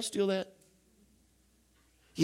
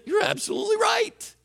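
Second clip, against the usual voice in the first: high shouted agreement; Jesus shouting. Retold or imitated. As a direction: belt it out like a joyful proclamation. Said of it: "He would say".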